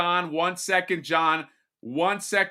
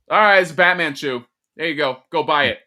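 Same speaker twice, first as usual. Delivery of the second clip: lazy salesman; 7 dB louder, faster than usual. Retold or imitated. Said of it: "they'll be like".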